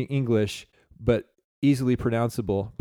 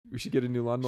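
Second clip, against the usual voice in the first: imitating wife; 5 dB quieter, much faster than usual. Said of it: "She says".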